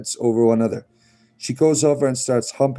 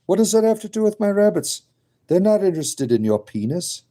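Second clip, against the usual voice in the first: exasperated; 6 semitones higher than usual. Real, not acted. Exasperated at chat.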